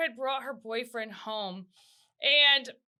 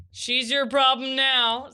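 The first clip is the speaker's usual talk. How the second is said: slow, louder teasing verdict; teasing handoff; 5 dB louder, slower than usual. Retold or imitated. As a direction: hand over the problem with relish. Family handing sister to husband.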